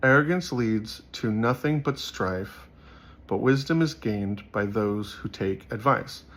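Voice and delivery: slow, measured Bible reading; solemn slow proverb reading; scripture reading. Acted. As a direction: read the verse out deliberately, slowly. Reads a proverb aloud.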